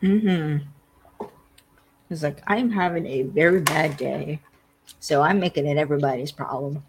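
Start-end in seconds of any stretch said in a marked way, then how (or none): 2.5-6.8 a hint of a bratty whine, fast at the end. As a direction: play the brat making it everyone's problem. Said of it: "He's being a brat".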